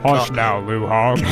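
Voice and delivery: low put-on mom voice; comically low motherly voice; soothing mother.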